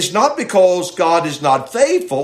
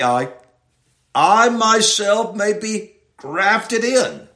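slow, "I" repeated and leaned on; stress on I; 3 semitones higher, slower than usual. Shown as a demonstration. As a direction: dwell on "I myself", slowly. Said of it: "the emphasis is upon the".

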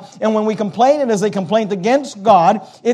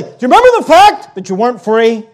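loud, pointed comeback question; challenging retort; 5 dB louder than usual. Acted. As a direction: throw the hard truth back at them. Acted retort to complainers.

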